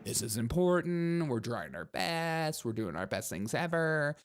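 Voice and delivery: mock-condescending singsong uptalk; patronizing. Host mimics academics saying they try their best, patronizing. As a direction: talk down to them, stretching the phrase ends. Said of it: "patronizing and looking down at you".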